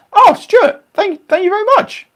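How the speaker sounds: very high, loud put-on squeal; mock-gushing thanks. Thanking Stuart for his kind message, mock-gushing falsetto. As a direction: gush it in a silly falsetto, loudly.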